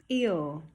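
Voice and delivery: "Ew" for ear, ending in oo; "Ew" as a wrong ear, vowel for R; missing R. Shown as a demonstration. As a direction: round off "Ew" with no R. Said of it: "There's no R in there".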